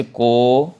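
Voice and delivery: "को" with its vowel drawn out; prolonged vowel. Shown as a demonstration. Teacher demonstrates the pluta vowel, lengthened "को". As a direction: hold the vowel of "को" extra long. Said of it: "उसी स्वर को आगे खींचता".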